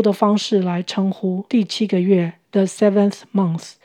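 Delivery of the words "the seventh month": the seventh month with each TH made tongue between teeth. Shown as a demonstration. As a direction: model the TH sounds in the seventh month. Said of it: "T H舌头都要伸出来".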